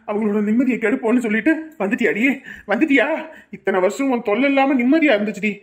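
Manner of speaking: angry tirade. Acted. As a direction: rail at the unwelcome visitor in rising fury. Attacking woman who returned. (கோபத்தில் திட்டும் குரல்)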